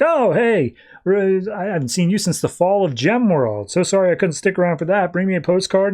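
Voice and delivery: lightly acted offhand hello; breezy mock greeting.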